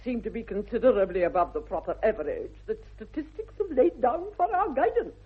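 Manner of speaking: incredulous dowager sarcasm; lofty mocking amazement; haughty exasperation. Exasperated aunt at many engagements.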